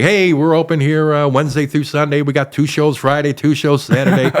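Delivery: mild mock host-announcer read; club announcements. Stalling comic reading club announcements, lightly hosty. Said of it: "I'm doing every announcement I could possibly think of".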